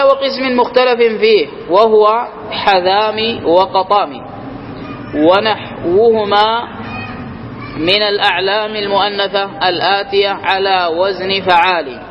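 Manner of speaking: slow formal reading of the grammar text; reciting the text. Acted. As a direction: draw each word out as from a set book. Reads the grammar text aloud.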